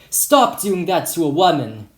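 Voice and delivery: restrained narrated shout; mild shout. Acted. Boy pouncing on attacker, mildly shouting. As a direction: raise the voice a little to intervene. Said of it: "pounced on him and shouted".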